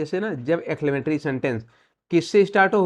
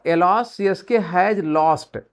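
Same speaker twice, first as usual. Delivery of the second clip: slow dictation; much slower than usual. Shown as a demonstration. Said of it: "अगर ये बोलना हो".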